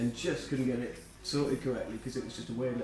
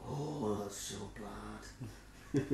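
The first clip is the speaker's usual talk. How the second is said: imitating Rico; 6 semitones lower, 14 dB quieter, much slower than usual. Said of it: "Rico would just look at me and just like".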